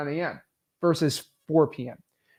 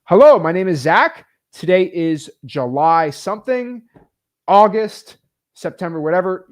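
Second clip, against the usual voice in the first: sample script read; 3 semitones higher, 6 dB louder than usual. Shown as a demonstration. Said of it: "just start saying the script".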